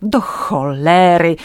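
slow, forceful angry outburst; angry yell. A narrator's reading. Policeman yelling at the tramp, slow angry outburst. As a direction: lose it at the stubborn tramp. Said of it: "wrzasnął policjant".

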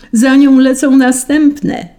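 high, slow, loud shriek; cats shrieking. A narrator's reading. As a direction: shriek it out like a cat. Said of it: "wrzasnęły koty". (wysoki, przeciągły koci wrzask)

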